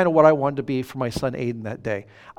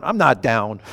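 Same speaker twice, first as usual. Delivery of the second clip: low, grumpy retold denial; irritable denial; 5 semitones lower than usual. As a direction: imitate a husband stubbornly denying it. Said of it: "angry and irritable and ornery".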